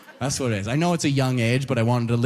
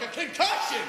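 deadpan reply; 13 semitones higher, 6 dB quieter than usual. Retold or imitated. Punchline reply to kid.

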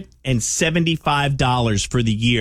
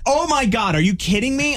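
much higher, hammed-up disbelief; mock panic; 9 semitones higher than usual. Prankster fooling the scammer, mock panic. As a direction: pretend to be shocked and alarmed. Acting alarmed at scammer's warning.

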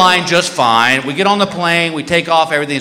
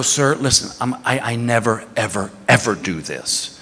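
pleading quietly; 7 semitones lower, 7 dB quieter than usual. Retold or imitated. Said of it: "I go".

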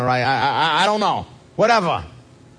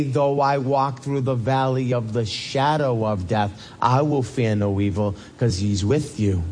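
gentle reassurance; 5 semitones lower than usual. Acted. Jesus comforting the fearful.

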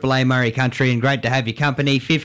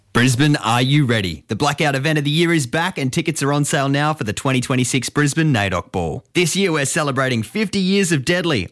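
upbeat radio ad read. Acted. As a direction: announce it like a radio promo. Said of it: "Oh, radio voice time".

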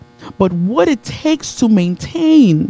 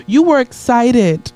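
slow, stretched out and louder; ironic softer take, actually louder; 5 semitones higher, slower than usual. Shown as a demonstration. Preacher teasing the crowd, slow and loud. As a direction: lean on were, drawn out. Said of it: "say it a little softer".

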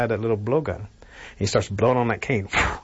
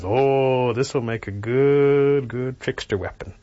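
delighted; 3 semitones higher, slower than usual. Acted. Rabbit delighted with his new dart.

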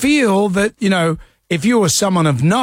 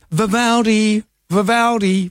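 drawn-out, higher-pitched dog call, not really yelled; mock calling out; 5 semitones higher, slower than usual. Trying out yelling a friend's dog's name, mock calling out. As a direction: call the dog in a slow, high voice. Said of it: "name that you could yell out".

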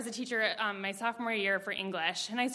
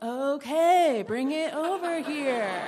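slow, laughing "bring it over here"; laughing reply; 4 semitones higher, 4 dB louder, much slower than usual. Retold or imitated. The speaker repeating her offer, laughing as she retells.

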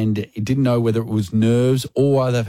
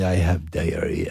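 put-on slow, low romantic French-accented line; mock French line; 5 semitones lower, 4 dB quieter, slower than usual. Host imagines a French lover saying it, slow and lower, mock French. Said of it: "if someone said to me".

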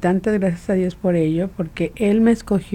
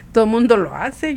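laughing self-mockery; 3 semitones higher than usual. Laughing at her old self.

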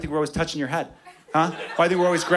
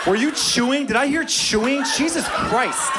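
higher, mock-outraged yell at a chewing partner; hammed-up disgust, calling him out; mock shouting; 5 semitones higher, slower than usual.

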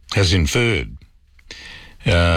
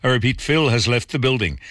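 a mock Las Vegas announcer voice, pitched higher; hammed-up Las Vegas accent, like announcing a famous singer has gone; 6 semitones higher than usual. Reading a listener's joke to Mike, in a hammed-up Las Vegas accent. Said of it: "this is my best Las Vegas accent".

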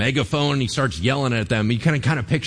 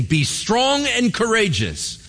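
encouraging; 9 semitones higher, slower than usual. Retold or imitated. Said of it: "spoke encouragingly".

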